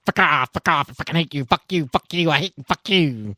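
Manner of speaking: a little creature spitting insults; lightly voiced angry critter. Bottled creature cursing at the players, lightly voiced angry critter. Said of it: "flipping you the bird and going".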